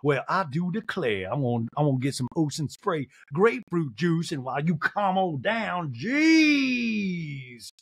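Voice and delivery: slow, drawn-out put-on voice; unhurried hammed-up impression; Sutton. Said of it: "And Sutton just stares back like".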